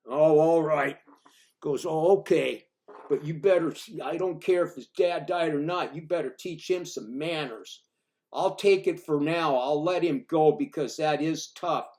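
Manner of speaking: a big man backing down but warning; lightly voiced cowboy letting it go; big cowboy grudging.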